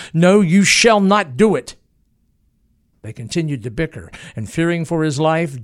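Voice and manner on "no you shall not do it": sharp, raised refusal; snapped. Acted. Booth snapping no at Harold, sharp raised refusal. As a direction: cut him off hard and loud. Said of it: "He snapped".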